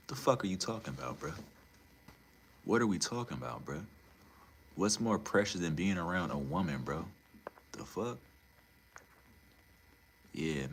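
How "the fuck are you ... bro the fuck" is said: fast disbelief. Real, not acted. Rapid disbelieving rant.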